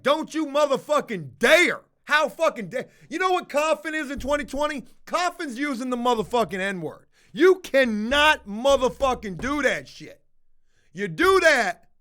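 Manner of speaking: high-pitched, indignant telling-off; outraged scolding. Acted. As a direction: scold a cougher in hammed-up outrage. Telling off a woman who coughed.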